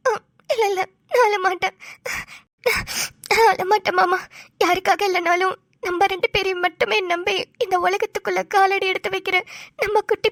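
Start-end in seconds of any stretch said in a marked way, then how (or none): 0.1-4.2 crying while promising not to cry; holding back tears. Acted. Wife promising her husband she won't cry, still crying.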